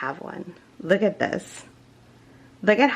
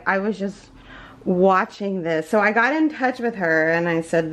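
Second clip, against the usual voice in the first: ordinary delivery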